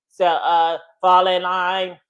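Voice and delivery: lightly voiced monotone robot drill instructor; robotic instructor. Instructor calling his flight into line, mock robotic. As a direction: imitate a low, robot-like drill command. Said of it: "the way that he talked was like this".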